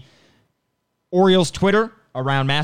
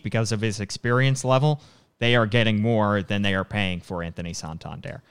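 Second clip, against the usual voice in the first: out of breath. Real, not acted. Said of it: "I think I'm out of breath at this point".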